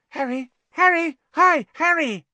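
very high, loud excited calling; piping, over-keen greeting; eager fan. A narrator's reading. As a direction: call out to your hero, thrilled. Eager young fan calls his hero.

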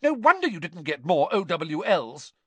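high-pitched angry scolding; cross mother's shrill retort; shrieked rebuke. A narrator's reading. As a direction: fling a scornful rebuke at your son. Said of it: "she shrieked".

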